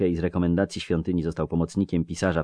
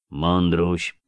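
drawn out; 4 dB louder than usual. Acted. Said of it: "zawtórował przeciągle".

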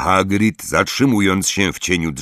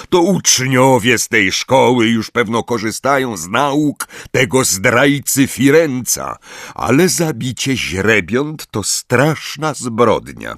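calm; 6 semitones higher, 3 dB louder than usual. Acted. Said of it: "powiedział spokojnie Magorian".

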